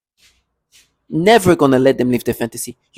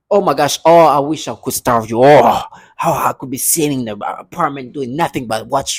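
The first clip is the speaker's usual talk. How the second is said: sarcastic mock longing. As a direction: pretend to yearn for it, mockingly. Sarcastically acts out wishing to starve.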